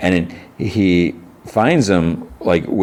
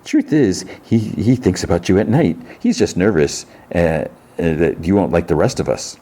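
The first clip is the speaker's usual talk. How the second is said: lightly voiced second voice, pitched up at first; another voice. Another voice turns to her, lightly put on. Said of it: "Then another voice, like, turns to her".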